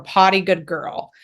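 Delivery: slow, drawn-out neutral delivery; unexcited, stretched-out marker. Shown as a demonstration. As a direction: say it slowly at an everyday pitch. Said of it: "not saying this in a neutral tone".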